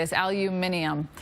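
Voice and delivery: "aluminium" with the extra i, al-you-MIN-ee-um; British pronunciation. Shown as a demonstration. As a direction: say "aluminium" the British way, five syllables. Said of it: "that's the British way".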